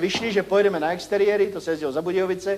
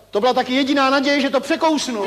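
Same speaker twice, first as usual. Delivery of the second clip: retold yell; 4 semitones higher than usual. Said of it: "Jirka Sovák řval".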